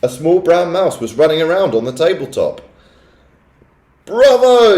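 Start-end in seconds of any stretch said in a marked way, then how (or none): 4.0-4.8 high, very loud cheer; crowd yelling bravo. A narrator's reading. Witches cheering their leader, loud and high. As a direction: yell it out in triumph. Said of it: "yelled the audience".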